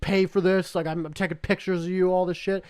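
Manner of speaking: mock rant, only half yelled; retold screaming. Angry driver threatening the group over his windshield, a retold rant. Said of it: "so he starts screaming".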